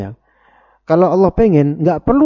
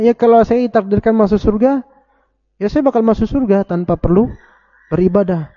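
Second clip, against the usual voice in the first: higher, mock-innocent excuse; lightly voiced lazy believer shrugging off worship; imitating the excuse-maker; 5 semitones higher than usual. (menirukan orang malas beribadah, suara lebih tinggi)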